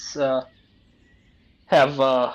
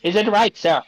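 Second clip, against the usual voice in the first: high, bright-pitched put-on Korean accent for a counter clerk; mock Korean accent; 5 semitones higher than usual. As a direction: play a fast-food cashier with a hammed-up Korean accent. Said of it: "Do Korean, do Korean one".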